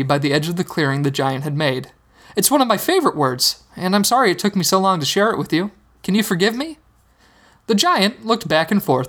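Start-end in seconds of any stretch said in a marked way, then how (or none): 2.4-6.8 put-on boy voice. Hogarth voiced as a child.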